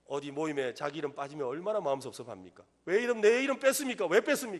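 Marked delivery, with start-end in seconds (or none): 2.8-4.6 high, loud, indignant tone. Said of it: "이러면서 막 따지거든요".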